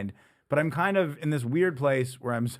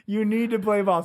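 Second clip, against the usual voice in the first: mock pushy friend; 5 semitones higher than usual. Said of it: "You're like".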